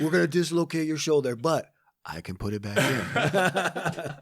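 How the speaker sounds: high, laughing, slowing to the end. Pretend. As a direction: joke it through giggles. Joking threat while laughing.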